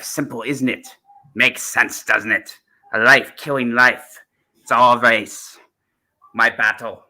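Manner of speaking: rolled r's, Scottish lilt, intense; Seventh Doctor impression. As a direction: Sylvester McCoy Doctor voice. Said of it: "I'm gonna do the Seventh Doctor".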